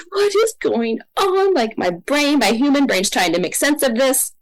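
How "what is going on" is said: slow, much higher, stunned; amazed and confused, slow and high; high drawn-out bewilderment. Retold or imitated. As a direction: draw it out as if utterly lost. Bewildered in the vision.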